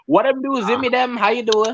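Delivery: imitating Jamaican relatives' accent; put-on Jamaican patois greeting. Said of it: "you can only hear her accent".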